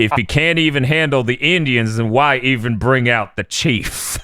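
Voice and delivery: imitated Southern trucker android introducing himself; mock Southern one-liner; Southern trucker accent. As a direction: put on a light Southern accent. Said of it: "Android seventeen doing a Southern accent".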